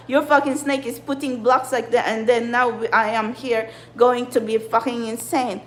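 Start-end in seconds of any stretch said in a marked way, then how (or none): none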